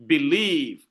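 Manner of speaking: "believe" weighted on its second syllable; stress on second syllable. Shown as a demonstration. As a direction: lean on the "lieve" in "believe". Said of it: "la deuxième syllabe est accentuée".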